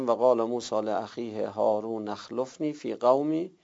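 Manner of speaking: و قال موسی لاخیه هارون اخلفنی read in one breath, no hamza; connected reading. Shown as a demonstration. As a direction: run هارون into اخلفنی without a break.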